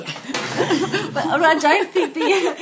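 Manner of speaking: talking through loud laughter; amused laughing words. Real, not acted. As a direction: laugh while starting to speak. Laughing after the joke.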